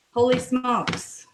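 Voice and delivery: slow, drawn-out amazement; amazed. Real, not acted. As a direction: stretch it out in disbelief. Amazed how fast food cooked.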